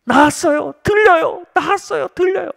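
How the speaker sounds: high, exultant cries; young man shouting that he is healed; joyful testimony. Retold or imitated. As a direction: imitate him leaping for joy. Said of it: "기뻐 뛰며 간증하기 시작했어요".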